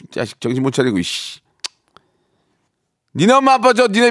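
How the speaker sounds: a mother yelling at sons to get up, hammed up; play-angry wake-up yell with bursts; mock scolding parent. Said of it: "화를 좀 내줄 거예요". (늦잠 자는 아들들을 깨우는 엄마처럼 과장되게 화내기)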